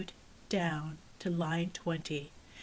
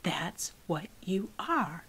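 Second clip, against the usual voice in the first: cold; slower than usual. Acted. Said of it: "she said coldly".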